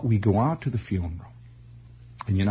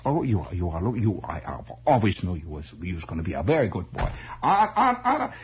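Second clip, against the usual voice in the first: put-on vague German accent; 3 semitones lower than usual. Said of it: "they all had this vague German accent".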